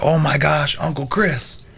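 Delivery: mock-frantic, high-pitched retelling; freaking out. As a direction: blurt it out like a frantic teenager. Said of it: "he's freaking out".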